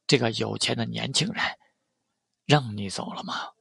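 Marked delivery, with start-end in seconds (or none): 2.4-3.5 cool, restrained challenge; coldly. A narrator's reading. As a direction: halt him with a cold question. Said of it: "继续冷冷地对他说道". (冷冷地质问)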